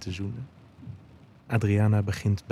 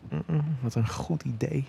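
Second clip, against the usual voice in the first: kreunend; 6 semitones higher than usual. A narrator's reading. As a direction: moan the words, lifted in pitch. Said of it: "kreunt Adriana". (hoger, zacht kreunend)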